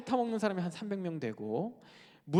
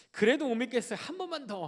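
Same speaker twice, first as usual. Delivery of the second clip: high-pitched mock plea; pleading; 7 semitones higher than usual. 기드온이 한 번 더 간청하는 장면. (한 번 더 조르는 높은 목소리)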